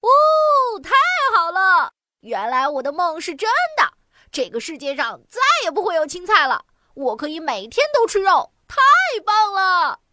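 high, happy cheering; thrilled there are no vegetables; overjoyed child. A narrator's reading. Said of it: "彤彤开心极了". (孩子欢天喜地)

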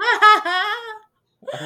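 high laughing burst. Real, not acted. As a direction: laugh it out loud. Laughing while retelling.

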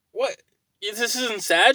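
can't believe she isn't crying; incredulous. Retold or imitated. Retold quarrel with wife.

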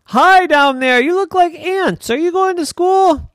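shouting down from up high; calling down. Acted. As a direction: call down to the tiny people. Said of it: "he would shout down".

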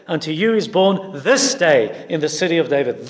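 "this day" leaned on, falling firmly; weight on "this day" like the angel's proclamation; stress on this day. Retold or imitated. Preacher echoing the angel's emphasis on "this day". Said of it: "the angel emphasizes the word today".

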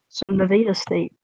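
Nevada said ne-VAY-da State; Nevada State, long A. Shown as a demonstration. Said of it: "it's pronounced Nevada".

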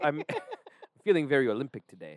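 badly faked Jamaican accent; horrible Jamaican accent. Co-host quoting a film for laughs, bad Jamaican accent. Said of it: "That's a horrible Jamaican accent".

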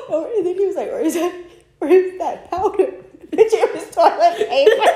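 high, laughing while telling. Real, not acted. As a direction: laugh through the words. Telling funny story, laughing.

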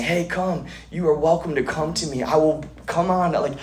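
lightly voiced loving captain, inviting. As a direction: welcome them aboard like a kind captain. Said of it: "a loving captain".

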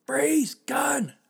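high, loud yelled alarm; full blown shout. Retold or imitated. Cop yelling at driver reaching for glovebox, full shout. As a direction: scream it like a startled cop. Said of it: "I mean, full blown".

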